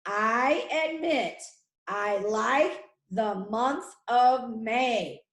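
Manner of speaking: slow, phrase by phrase, with small pauses; slow dictation. Shown as a demonstration. Teacher repeating a sentence for pupils to write, slow dictation. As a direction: set each word out slowly for writing down.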